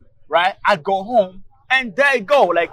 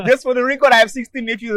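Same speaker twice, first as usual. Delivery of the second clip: chuckling through the words; laughing; 5 semitones higher, 4 dB louder than usual. Real, not acted. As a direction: say it while still laughing. Laughing at his own joke.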